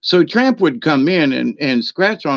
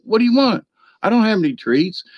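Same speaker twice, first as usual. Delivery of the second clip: talking to the dog; 9 semitones higher, faster than usual. Retold or imitated. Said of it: "I was like".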